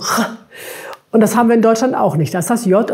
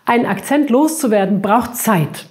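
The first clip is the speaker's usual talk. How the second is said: "Zeit" marked as the key word; stress on Zeit. Shown as a demonstration. Teacher demonstrates stress on "Zeit" for learners. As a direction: put the weight on "Zeit". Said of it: "die Zeit ist hier das Wichtigste".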